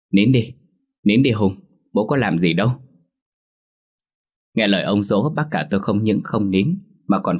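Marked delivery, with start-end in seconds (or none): 0.1-2.7 frantic hushing. Acted. Father frantically hushing his crying son. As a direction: hush the baby in a panic. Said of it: "miệng liến thoáng".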